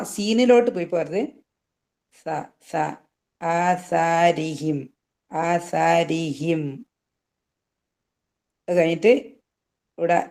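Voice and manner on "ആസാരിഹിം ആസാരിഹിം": ആസാരിഹിം very slow, with a light tongue-tip സ; recitation demo. Shown as a demonstration. Teacher modelling the സ sound for students, slow recitation. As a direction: draw out ആസാരിഹിം, the സ touched lightly at the teeth. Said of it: "നാവിന്റെ തുമ്പ് മുൻപല്ലിന്റെ തമ്പത്ത് വെക്കുക".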